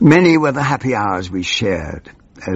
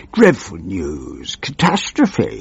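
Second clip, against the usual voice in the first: howling minister; 2 semitones lower, slower than usual. Acted. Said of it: "he howled".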